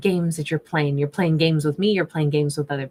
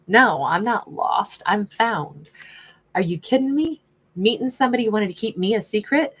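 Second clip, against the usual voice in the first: lightly acted sassy queen, swooping pitch; a touch of haughty sass; sassy indignation; 4 semitones higher than usual. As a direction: put someone in their place with proud, mock indignation. Voices the indignant queen card.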